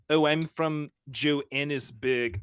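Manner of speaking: put-on tight-jawed take on a South African accent; mocking, tight South African vowels. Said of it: "relax your jaw when you're pronouncing something".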